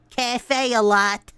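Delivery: "Cafe a lot" said slowly with a hard T; spelled-out pronunciation. Shown as a demonstration. Streamer shows how she reads it: slow "Cafe a lot". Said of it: "say the T".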